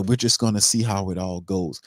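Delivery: mild mock of a limp, noncommittal answer; wishy-washy loser talk. GM mocked as a coach who won't commit, lightly noncommittal. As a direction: shrug it off like there is no plan. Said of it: "he talk loser talk".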